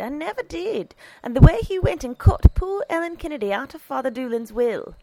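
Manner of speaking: high, indignant character voice; disgruntled housekeeper. A narrator's reading. Housekeeper recalling the bishop's wrong, indignant.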